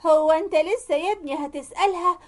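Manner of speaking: mock-hurt, lightly crying voice; tearful protest. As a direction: whine as the wronged mother. Mother-in-law keeps playing the tearful victim.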